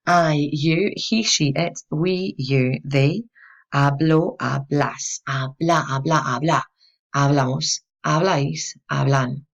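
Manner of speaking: measured recitation of a verb pattern; teacher's rhythmic conjugation drill; memorization drill. Shown as a demonstration. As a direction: recite each form as a separate beat. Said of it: "let's hear that little pattern once more".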